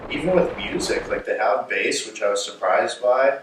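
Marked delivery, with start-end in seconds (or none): 1.7-2.0 "bass" with a short a, like the fish; "bass" rhymed with "mass", the fish word; "bass" slipped out as the fish name. Real, not acted. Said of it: "there's no way I really just said bass, like the fish bass".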